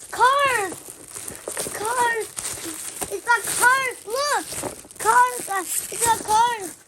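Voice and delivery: high, excited repeating; thrilled by the toy. Real, not acted. Child thrilled by toy cars.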